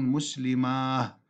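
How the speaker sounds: "مسلماه" ending in h instead of t; long aa closed by breathed h in "مسلماه"; final ha. Shown as a demonstration. Teacher showing another dialect, "مسلماه" with final h. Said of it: "يقلبون التاء هاء في مسلمات".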